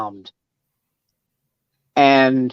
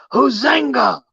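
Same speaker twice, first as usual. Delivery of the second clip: tribal yell; 6 semitones higher, slower than usual. Acted. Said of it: "And they all yell".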